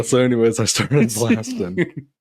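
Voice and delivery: Danny DeVito. Acted. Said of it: "Danny DeVito".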